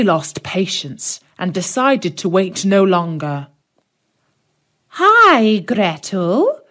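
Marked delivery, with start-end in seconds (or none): 4.9-6.6 calling out. Acted. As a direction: call the girl from across the house. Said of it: "she called to the girl".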